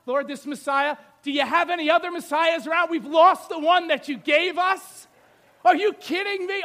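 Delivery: loud, acted-out panicked plea; hammed-up desperate appeal to God; exasperated prayer. Acts Joseph praying in panic.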